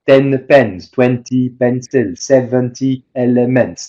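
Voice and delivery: even French-style syllable timing, every syllable equal; mock French speaker giving each syllable the same weight. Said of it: "a French person will want to say".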